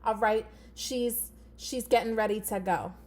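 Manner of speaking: lightly voiced Jersey girl; Flora's Jersey accent. Shown as a demonstration. Teacher introducing her puppet character, light Jersey girl accent. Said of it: "She's gonna be a little Jersey girl".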